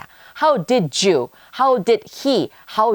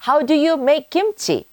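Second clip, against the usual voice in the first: each word said slowly and clearly for learners; slow model sentence; 6 semitones higher, much slower than usual. Shown as a demonstration. Teacher slowly models the question for students. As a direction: spell it out slowly so students can repeat. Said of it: "라고 하면 됩니다".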